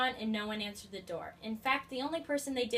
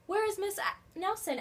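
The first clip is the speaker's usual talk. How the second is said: put-on puzzled kids; 10 semitones higher, 3 dB louder than usual. A narrator's reading. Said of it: "asked the kids".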